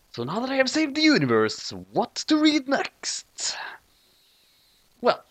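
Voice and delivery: whispered, high musing. Real, not acted. Reader wondering what to read next, whispered. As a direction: breathe it out as a secret thought. Narrator muses after saving universe.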